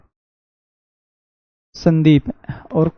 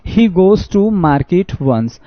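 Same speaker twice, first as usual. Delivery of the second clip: reading the sentence out slowly, word by word; drawn-out classroom reading; slow reading aloud; much slower than usual. Shown as a demonstration. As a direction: read it like a dictation.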